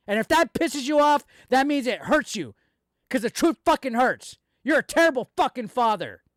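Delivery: angry rant. Real, not acted.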